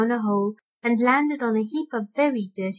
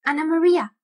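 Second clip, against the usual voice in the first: high, louder squeak of a name; squeaking rat voice; 5 semitones higher, 4 dB louder than usual. Acted. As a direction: call her in a squeaky rat voice. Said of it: "squeaked the rat".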